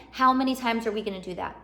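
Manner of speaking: lightly mock-stern mom nagging; playful mom voice. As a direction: gently tell off a child who keeps doing it. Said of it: "I'm gonna have to mom you".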